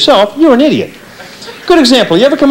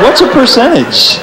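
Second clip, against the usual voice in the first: dim thought; 4 semitones higher, slower than usual. Retold or imitated. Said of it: "People like me are thinking".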